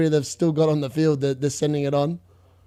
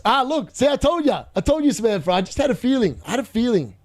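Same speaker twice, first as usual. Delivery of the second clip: gleeful told you so; 5 semitones higher than usual. Real, not acted. Gloating at a correct prediction.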